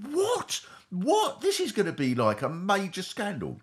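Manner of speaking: high, incredulous what-what; shocked disbelief. Retold or imitated. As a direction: squeak out the shock of realising. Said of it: "and I thought".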